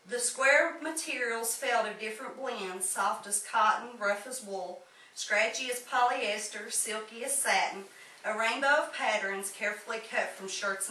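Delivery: measured, lilting poetry reading; poem recitation. Acted. Poet reads tribute to grandmother's quilts, measured recitation. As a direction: read each image as its own line of verse.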